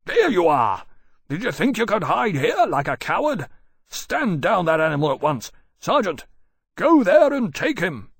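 loud raging officer; furious shout. A narrator's reading. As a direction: bellow it in fury.

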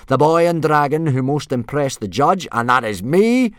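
loud, high, domineering bellow; yelled announcement. A narrator's reading. Judge announcing himself to the boys, yelling. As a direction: proclaim it to the whole arena. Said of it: "yelled Gobber".

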